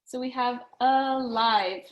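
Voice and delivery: alive drawn out slowly; slow stretch. Shown as a demonstration. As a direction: stretch alive to show the long I. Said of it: "tells the I to say I".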